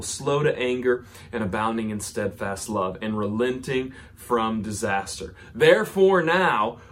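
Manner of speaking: a loud, pleading Jonah cries to the Lord; scripture read with a swell of pleading; dramatic scripture reading. Acted. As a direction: read it aloud like a desperate prophet. Reading scripture aloud, Jonah's prayer.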